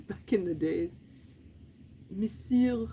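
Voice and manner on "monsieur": medieval beggar. Pretend. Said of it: "it sounds medieval".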